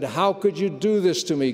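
a man shaking his fists at God; bitter protest. Retold or imitated. Angry man crying out to God, bitter protest. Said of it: "I clenched my fists and I shook them at heaven".

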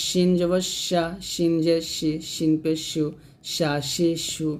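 "শা শি শু" with a full hushing sh; whistling sheen. Shown as a demonstration. Teacher drilling sheen with its hushing sound. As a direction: give "শিন" a strong sh rush of air. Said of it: "শেষ দিয়ে উচ্চারণ করতে হবে".

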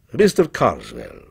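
low-pitched, measured address; reverent repetition. A narrator's reading. Dealer repeating his customer's name, reverent. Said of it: "repeated Mister Joshagin".

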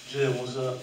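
low, soft come-on; deep sexy voice. Pretend. Contestant greeting Jennifer in a deep sexy voice. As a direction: purr it like a seduction line. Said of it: "in your sexy voice".

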